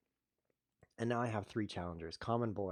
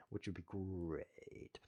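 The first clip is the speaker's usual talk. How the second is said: slow breathy whisper; 10 dB quieter, much slower than usual. Real, not acted. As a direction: drop to a whisper. Whispered aside about viewers.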